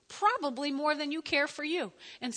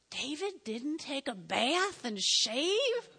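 mock dismissive recap; 2 semitones higher, much slower than usual. Mocking what hearers remember.

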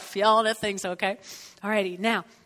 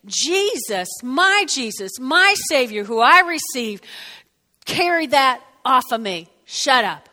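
firm rebuke; 4 dB louder than usual. Retold or imitated. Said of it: "I had to say".

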